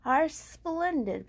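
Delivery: high, slow and wondering; dreamy Piglet. Acted. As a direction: marvel at the sunset. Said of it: "Piglet said".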